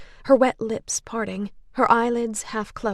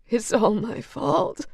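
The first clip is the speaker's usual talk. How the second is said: slow, crying apology; tearful; 3 semitones higher, slower than usual. Acted. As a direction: sob out the blame. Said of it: "dissolving into tears".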